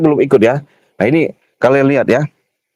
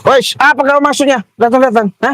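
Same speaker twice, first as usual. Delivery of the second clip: high-pitched, indignant challenge; raised, annoyed voice; agitated challenge; 10 semitones higher than usual. Real, not acted. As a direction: confront him, pitch jumping up. Confronted by a man blocking him.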